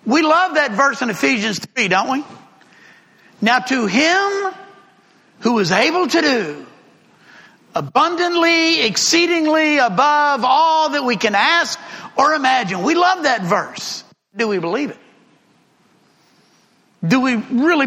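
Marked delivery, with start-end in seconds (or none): 3.4-12.8 scripture reading. Acted. Reads scripture verse.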